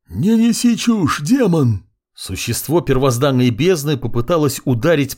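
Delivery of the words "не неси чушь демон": high, loud, slowed creature voice; monstrous snarl. A narrator's reading. Abyss creature rejects the hero's flattery with a monstrous yell. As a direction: spit it at the demon.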